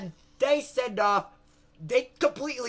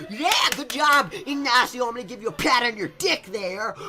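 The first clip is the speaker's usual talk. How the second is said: congratulating president; 2 semitones higher, 4 dB louder than usual. Acted. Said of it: "So the Mexican president, Juarez, is like".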